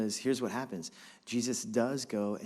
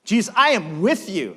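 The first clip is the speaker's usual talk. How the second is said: Brooklyn swagger; 7 semitones higher, 10 dB louder than usual. Acted. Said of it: "Brooklyn swagger Peter's got".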